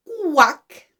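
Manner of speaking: falling quack at natural pitch; plainly modelled duck sound. Shown as a demonstration. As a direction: show a clear quack for children. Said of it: "Watch my mouth".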